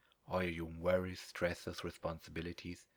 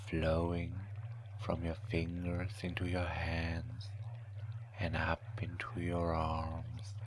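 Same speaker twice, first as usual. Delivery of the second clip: whispered hypnosis; slower than usual. Acted.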